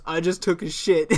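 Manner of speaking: deadpan, no expression at all; friend's deadpan excuse to his dad; straight face. Retold or imitated. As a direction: say it totally straight-faced. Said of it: "I'm talking straight face".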